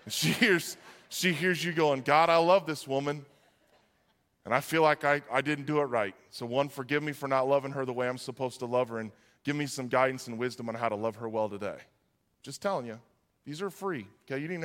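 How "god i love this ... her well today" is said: low, confessional prayer; sample prayer. Acted. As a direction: humbly ask God for help, voice kept down. Models prayer about wife.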